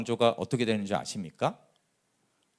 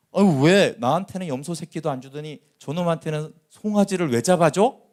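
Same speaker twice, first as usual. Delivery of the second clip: indignant complaint, higher and louder; oburzony starszy syn; 4 semitones higher, 7 dB louder than usual. Acted. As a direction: protest loudly as the resentful older brother. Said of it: "이게 화가 나는 거예요".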